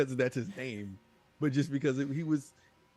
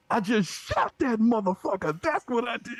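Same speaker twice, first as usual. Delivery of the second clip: much louder, higher blunt boast; deadpan boast; 11 semitones higher, 9 dB louder than usual. Retold or imitated. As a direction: drop it like a cocky silent teammate. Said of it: "finally just hear his voice like".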